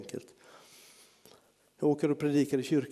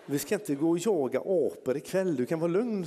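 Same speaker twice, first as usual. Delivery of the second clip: reassuring; 5 semitones higher than usual. Retold or imitated. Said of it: "sa jag, liksom".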